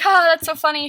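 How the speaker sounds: loud pretend laugh into the line; mimicked amusement. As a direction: imitate friends finding it funny. Imitating amused friends.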